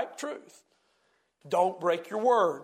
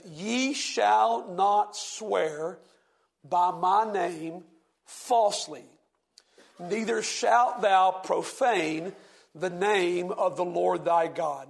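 slow, solemn King James reading; scripture reading; much slower than usual. Acted. Preacher reading scripture to the class, slow and solemn. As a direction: read the old verse slowly, with weight. Reads Leviticus aloud.

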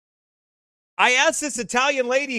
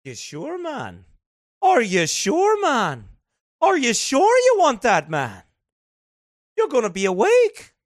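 lightly imitated Scottish accent, questioning; a half-done Scottish accent with doubtful rises. Espresso man doubting the order of four shots, in a mock Scottish accent. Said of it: "I'll work on my Scottish".

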